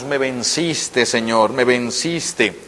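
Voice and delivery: whisper-like prayer of giving in; hushed surrender. Acted. Preacher with folded hands surrendering to the Lord, soft and slow. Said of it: "y ahora doblo las manos".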